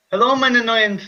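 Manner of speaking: a clumsy German doctor greeting; German accent, overdone; mock German accent. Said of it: "I'm mixing up accents".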